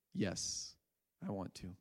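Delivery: a soft, breathy, barely voiced yes; hushed yes. Weeping man answering Alvin in a hushed voice. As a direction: murmur the yes as if it costs him.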